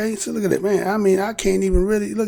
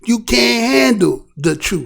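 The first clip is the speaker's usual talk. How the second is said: slow, lightly dramatic movie line; drawn-out challenge, lightly acted; Jack Nicholson line; 4 semitones higher, slower than usual. Quoting the movie to the chat, slow and dramatic. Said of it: "Jack Nicholson said".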